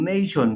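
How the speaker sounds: নেশন with a gliding "ei", "neishon". Shown as a demonstration. Teacher giving an example of A, নেশন said "neishon". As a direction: sound the A in নেশন as "ei". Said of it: "এর উচ্চারণ এই হয়".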